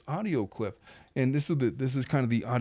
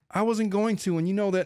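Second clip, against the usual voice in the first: higher, sheepish protest; Michael; 6 semitones higher than usual. Retold or imitated. Husband defending himself to his wife, sheepish. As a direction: imitate a meek man raising his pitch. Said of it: "in his, like, very sheepish Michael voice".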